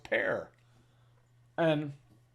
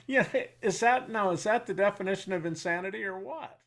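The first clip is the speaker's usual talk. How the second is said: pitched up in disbelief; baffled rhetorical question, voice jumping high; incredulous; 5 semitones higher than usual. Real, not acted. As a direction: ask it like you can't believe it. Incredulous at commander's reaction.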